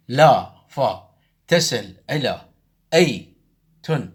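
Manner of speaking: slow, each syllable chopped apart. Shown as a demonstration. Teacher scanning the verse slowly for students, syllable by syllable. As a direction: beat out يا فا فؤا دي تن slowly, one syllable at a time. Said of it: "نقطع صوتًا".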